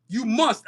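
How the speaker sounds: "must" given firm weight; insistent stress on "must". Real, not acted. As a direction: lean on the word "must". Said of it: "and I stress this again".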